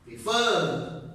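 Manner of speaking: "Refer" with the last syllable up; stress on second syllable. Shown as a demonstration. Teacher showing the last is up, "Refer" stressed on the end. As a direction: lean on the "fer" of "Refer". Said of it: "the last is up".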